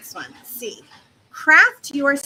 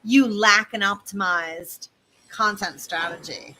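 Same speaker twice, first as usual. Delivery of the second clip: mock jargon; 3 semitones lower than usual. Shown as a demonstration. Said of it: "don't say".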